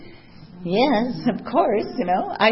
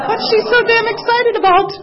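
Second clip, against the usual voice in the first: grumpy thought; 10 dB louder than usual. Retold or imitated. Grumbling inner thought.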